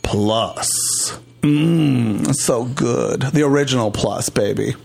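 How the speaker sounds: playful sponsor plug; ad read. Acted. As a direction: sell it like a cheesy ad host.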